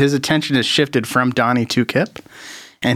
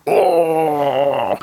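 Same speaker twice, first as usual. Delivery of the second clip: dying gasp; 2 semitones higher than usual. Acted. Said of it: "He's like".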